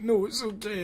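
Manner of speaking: high-pitched imitation of a kid; kid's voice. Kid reassuring dad in the retelling, high imitated voice. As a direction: pitch right up for the child. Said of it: "'cause the kid was like".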